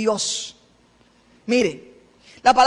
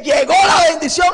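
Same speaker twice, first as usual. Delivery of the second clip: excited cry; 4 semitones higher, 5 dB louder than usual. Retold or imitated. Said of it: "usted dice".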